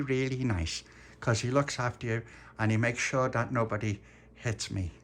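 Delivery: put-on child relaying mum's message, slightly high; earnest little Dolores. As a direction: start high, settle into careful earnestness. Dolores relays what her mum said.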